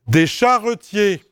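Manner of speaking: "charretiers" in three syllables, char-re-tier; careful pronunciation. Shown as a demonstration. Teacher dictating to the class, careful three-syllable "charretiers". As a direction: sound the middle schwa of "charretiers". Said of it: "J'ai bien dit charretiers".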